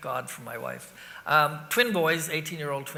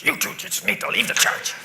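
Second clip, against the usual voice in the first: louder mock scolding; upset sister; 3 semitones higher, 7 dB louder than usual. Upset sister scolding two gigglers in church, louder imitated telling-off. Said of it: "like, really upset".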